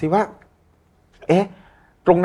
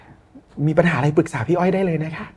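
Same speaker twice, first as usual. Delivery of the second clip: calm soothing voice; 3 semitones lower, slower than usual. Retold or imitated. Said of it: "ใจเย็นเสียงพี่อ้อยพี่ชอต".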